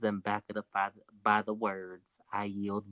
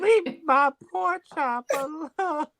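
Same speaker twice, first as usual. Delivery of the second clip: high mock defensive squeal; 4 dB louder than usual. Joking defense of pork chop.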